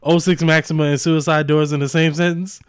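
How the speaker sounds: giggling through the quote; laughing mock gossip. Gossiping friend mocking the date, laughing. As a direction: laugh as you mock her. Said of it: "one of them was like".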